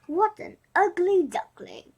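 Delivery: loud, breathy cry of dismay; dismayed exclamation. Acted. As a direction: exclaim at the ugly chick. Mother duck exclaims to friends.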